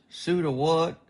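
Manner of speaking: puzzled, pitch jumping up; confused question. Acted. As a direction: ask it baffled and high. Hungover guy confused.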